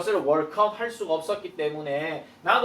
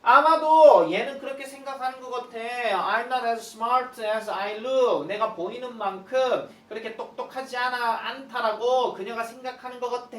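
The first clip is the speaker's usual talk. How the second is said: higher and louder indignant question; 삼촌이 놀라서 외치는 흉내; mock outraged exclaim; 7 semitones higher, 5 dB louder than usual. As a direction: blurt it out in disbelief. Uncle voiced, insecure complaint.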